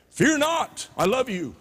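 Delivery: high-pitched "fear not", easing down; light mock reassurance. Go to the guy and say, in light mock reassurance. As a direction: imitate a messenger's easy comforting line. Mock easy message from God's messenger.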